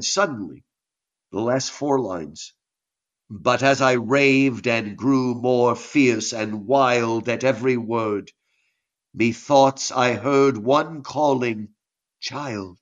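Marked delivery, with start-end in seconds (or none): 3.3-11.7 slow, low, measured verse reading; poem reading. Acted. Teacher reading a poem's last lines aloud, slow recital. 12.2-12.8 soft, low, hushed call; gentle whisper of God. Acted. God calling the raving poet, hushed and gentle. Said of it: "God whispers in his ear".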